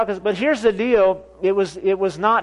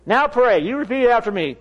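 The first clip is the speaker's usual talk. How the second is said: imitating a commanding prayer leader; firm, raised-pitch command; bold authority; 4 semitones higher than usual. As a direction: order him to repeat the prayer. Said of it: "she was operating in authority. She had boldness".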